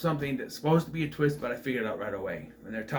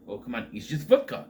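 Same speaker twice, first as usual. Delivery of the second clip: imitated Ukrainian accent, casual coaxing. Foreigner offering vodka to a new acquaintance, imitated Ukrainian accent. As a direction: talk someone into a drink in a rough Ukrainian accent. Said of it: "And I get the Ukrainian, Ukrainian accent".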